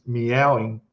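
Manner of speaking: "meowing" said slowly as mee-ow-ing; drawn-out, spelt-out "meowing"; like the written word. Shown as a demonstration. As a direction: sound the M and both vowels in "meowing". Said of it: "like the word meow".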